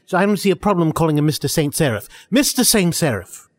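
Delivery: Saint Seraph said as English "saint seraph". Shown as a demonstration. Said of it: "pronounce it in the English way".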